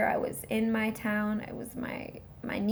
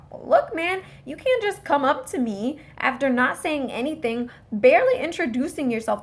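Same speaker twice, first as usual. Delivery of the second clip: indignant retort; 3 semitones higher, 7 dB louder than usual. Retold or imitated. Defendant scolding his public defender, loud and indignant. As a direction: push back hard, offended.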